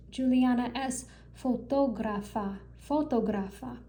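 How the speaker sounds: fotógrafa with the second syllable, the O in "tó", clearly leaned on; stress on the O. Shown as a demonstration. Teacher showing students the accented O, stressing fotógrafa. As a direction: lean into the "tó" of fotógrafa. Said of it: "I emphasize that O".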